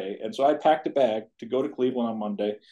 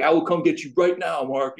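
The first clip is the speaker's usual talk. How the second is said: higher-pitched, lightly acted urgency; retold emphatic promise; 6 semitones higher, 4 dB louder than usual. Brother answering the call for pickup, emphatic. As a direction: re-enact a brother's eager rescue offer.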